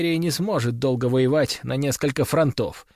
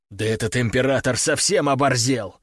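booming warrior king shout; angry exclamation. Acted. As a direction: bark it out in anger. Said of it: "злобно воскликнул король".

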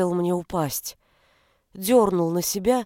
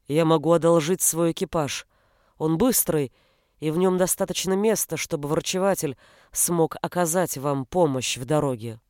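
calm prince; 4 semitones lower than usual. Acted. Narrator voices the prince.

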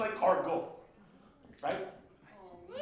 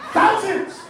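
shouted emphasis; 8 semitones higher, 4 dB louder than usual. Real, not acted.

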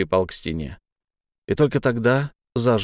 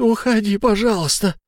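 desperate begging; 11 semitones higher than usual. A narrator's reading. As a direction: implore him to leave. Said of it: "взмолился Фиц".

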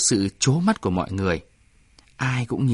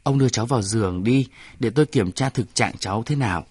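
fast, urgent request; giục giã, nói nhanh; urging; faster than usual. Acted. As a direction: hurry him to act. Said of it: "Y Sĩ Sơn giục".

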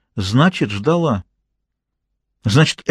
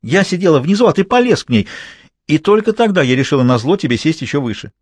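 indignant tirade; 6 semitones higher than usual. Acted. Jealous mistress berating her lover in their hotel room, indignant. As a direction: keep piling on the accusations. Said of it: "возмущалась Изольда".

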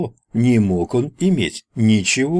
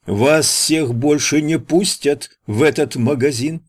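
raised shout, pitched up; shouting after him; 6 semitones higher than usual. A narrator's reading. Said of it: "прокричал ему вслед продавец".

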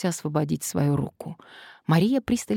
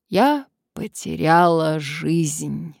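with pathos; 4 dB louder, much slower than usual. Acted. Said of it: "с пафосом воскликнула Мария".

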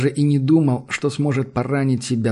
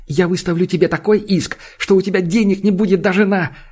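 shouted threat; 7 semitones higher, 4 dB louder than usual. A narrator's reading. Джуд угрожает иском.

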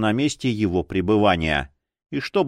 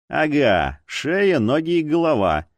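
mildly snappish retort; understated irritable comeback. Acted. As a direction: snap back with a touch of irritation. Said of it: "огрызнулась полицейская".

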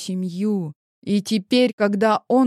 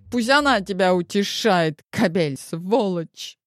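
put-on drunk angry rant; 2 semitones higher than usual. Drunk wife curses husband by phone.

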